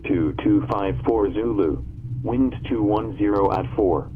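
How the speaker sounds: automated radio broadcast voice; airport weather broadcast. Real, not acted. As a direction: read it like a recorded ATIS loop. Recorded airport information broadcast.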